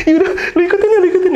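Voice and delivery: high, laughing instruction; high laughing push to follow the dot; laughing urging. Retold or imitated. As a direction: urge him on while laughing. Urging friend again.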